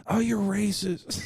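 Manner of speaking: high, drawn-out mock outcry; mock yell. Girl scolding a white guy, high mock yell. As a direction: imitate an outraged yell without the volume. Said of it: "Like, yelling at him".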